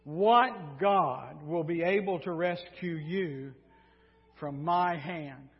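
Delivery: slow, deliberate royal boast; acted cocky king, taking his time; cocky challenge. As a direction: draw out a swaggering challenge. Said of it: "then he gets cocky".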